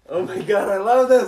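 high, loud delighted cry; thrilled someone asked for this story; excited. Real, not acted. To the friends about the bathroom story, a loud high delighted cry. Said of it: "reacting to the story request".

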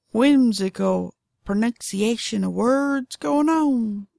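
whimsical Southern drawl; drawn-out, playful Southern pronunciation. Shown as a demonstration. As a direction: play with the words in a Southern drawl. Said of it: "it's the drawl. I love doing that".

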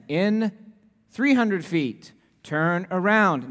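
slow, even satnav voice; imitating the GPS voice. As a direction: mimic the navigation voice. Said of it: "the voice very kindly comes on and says".

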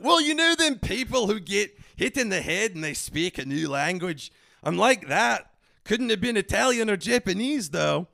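loud, high, hammed-up Scottish brogue; fake Scottish accent. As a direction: explain earnestly in a bad Scottish accent. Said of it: "this is a fake accent".

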